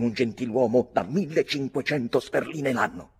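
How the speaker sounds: loud, scolding, carried away; heated rebuke. Acted. Mick scolding his cousin, loudly heated. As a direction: berate the meddling boy. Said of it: "disse trascinato dalla foga".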